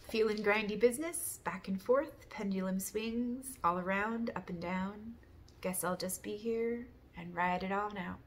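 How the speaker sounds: rhythmic recital in short phrases; poem reading. Real, not acted. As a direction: read out your own verse in measured beats. I wrote.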